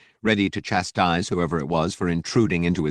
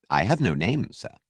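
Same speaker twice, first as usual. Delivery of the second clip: disapproving; 2 semitones higher than usual. Acted. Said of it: "The polished tone sounded somehow disapproving".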